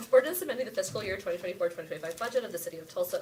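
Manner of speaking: fast, loud auctioneer rattle. Shown as a demonstration. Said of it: "In your best auctioneer voice".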